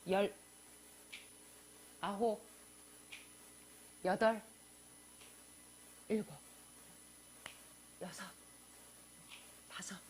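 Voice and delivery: calm counting, one breath per number; slow countdown demo. Shown as a demonstration. Preacher demonstrates a calming countdown, slow and measured. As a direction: count down slowly with long pauses. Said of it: "뚜껑 열릴 때 어떻게 하는가?".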